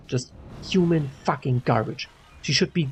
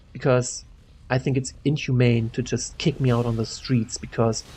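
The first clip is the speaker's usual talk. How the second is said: measured, retold plea for calm; diplomatic appeal. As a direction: reason with them, keeping it even and objective. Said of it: "diplomatic, objective way possible".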